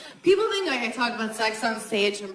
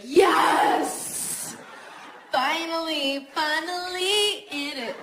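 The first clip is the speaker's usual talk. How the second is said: mock excitement; 7 semitones higher, much slower than usual. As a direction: cheer it like a win. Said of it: "She's not gonna be like".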